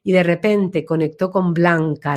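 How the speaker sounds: ordinary delivery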